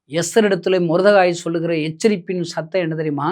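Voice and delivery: ordinary talk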